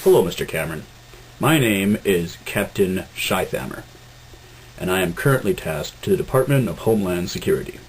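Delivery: low stern officer voice; stern captain voice. Acted. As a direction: play a cold official. German security captain character.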